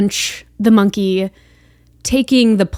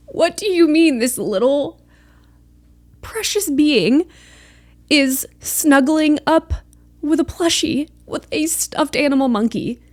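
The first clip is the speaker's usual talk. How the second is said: pleading, pitched-up protest; about to cry; 5 semitones higher than usual. Real, not acted. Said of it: "it's gonna make me cry".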